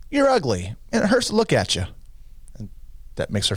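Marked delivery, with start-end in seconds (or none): 0.1-1.8 parrot insult. Acted. Parrot insulting a passing woman, increasingly high parrot voice. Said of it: "Parrot says".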